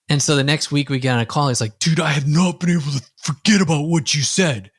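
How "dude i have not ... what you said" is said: lightly voiced client, a bit higher; put-on client voice. Client calling his coach a week later, lightly mimicked. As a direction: mimic the client with a little twist. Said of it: "that's just my little intonation to it".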